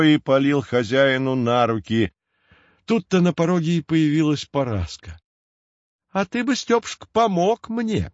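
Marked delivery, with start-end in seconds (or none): 6.1-8.1 much higher, sweetly caustic woman's voice; sarcastic wife. A narrator's reading. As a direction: needle her husband. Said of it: "язвительно заметила она". (язвительно, высоким голосом)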